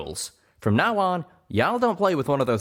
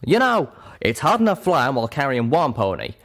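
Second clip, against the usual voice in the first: louder, higher angry rant; lashing out; 6 semitones higher, 4 dB louder than usual. Acted. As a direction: let her have it. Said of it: "Calamity lashed out".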